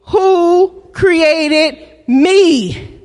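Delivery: drawn out slowly, word by word; slow response line. Shown as a demonstration. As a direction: model the church's answer slowly. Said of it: "but use the word me".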